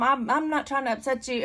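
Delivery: hammed-up flustered pleading; anxious apology. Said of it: "like, anxious and".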